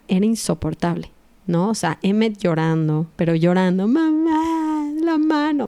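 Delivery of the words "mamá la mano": put-on much higher, whining little child; whiny crying toddler. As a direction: imitate a whimpering toddler. (imitando a un niño pequeño que lloriquea)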